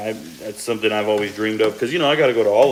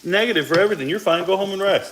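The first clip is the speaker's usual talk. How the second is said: high, breezy brush-off; lightly voiced dismissive nurse; mock doctor voice; 7 semitones higher than usual. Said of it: "they're like".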